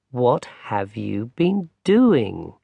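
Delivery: slow, gentle grandmother voice; an old granny asking kindly. Acted. Grandmother asks Barney where he's been, slow gentle granny voice.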